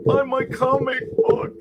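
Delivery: high, stiff salesman voice; stiff awkward pitch. Retold or imitated. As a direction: squeak it out like a nervous seller. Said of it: "stiff and awkward, stick up my ass".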